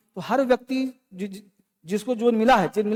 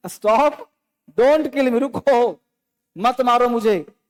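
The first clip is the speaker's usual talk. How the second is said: mild mock cry for mercy, slightly raised; mock scream; 2 semitones higher, much slower than usual. Teacher voicing the piglet begging for its life, mild mock scream. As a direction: act out the piglet's plea, only half screamed. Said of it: "It screamed".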